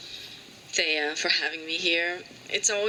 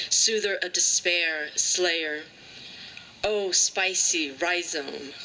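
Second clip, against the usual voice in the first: measured lines with pauses between phrases; deliberate, spaced-out poem recital; poetry reading. Acted. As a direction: recite a poem, drawing out line endings. Reads her poem aloud.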